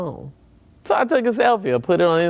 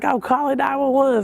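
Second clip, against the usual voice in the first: firm friend; 14 semitones higher than usual. Retold or imitated. Friend overrides him.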